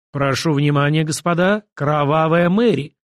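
slow, drawn-out boxing ring announcement; ring announcer voice. Acted. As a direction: call it out like a fight is about to begin. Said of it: "Голосом ринг-анонсера, объявляющего начало боксёрского поединка".

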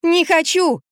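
put-on high wailing child's cry; a boy howls in protest. A narrator's reading. Boy howls at the vet, high mock wail. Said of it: "завопил Кирюшка".

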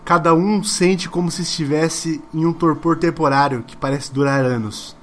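deliberate ending narration, phrase by phrase; game master narration. A narrator's reading. Game master reading the ending to players, dramatic narration. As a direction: set the final scene with dramatic pauses.

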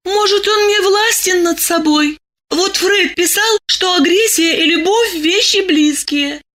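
put-on high, thoughtful young woman; high girl citing Freud; musing girl. A narrator's reading. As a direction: reason it out up high. Masha reasons about Freud.

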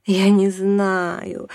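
slow, high moan; slow moaning I don't know. A narrator's reading. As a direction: draw it out in a long moan. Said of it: "застонала мама".

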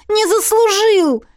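high, loud, slow outcry; the heroine protests to her beaten lover; exclaiming. A narrator's reading. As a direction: cry it out in protest. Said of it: "воскликнула я".

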